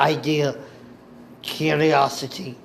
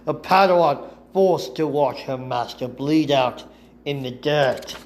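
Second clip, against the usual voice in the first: pained. Acted. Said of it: "Ventress pained".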